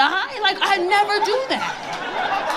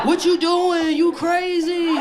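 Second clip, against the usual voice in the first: mock startled protest; slower than usual. Retold reaction during sex.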